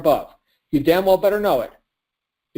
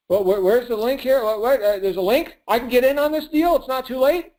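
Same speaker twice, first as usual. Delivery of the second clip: higher, excited voice of someone desperate to join; eager prospect; 6 semitones higher than usual. Retold or imitated. A prospect won over by conviction, asking eagerly where the link is. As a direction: play the buyer who can't wait to get in.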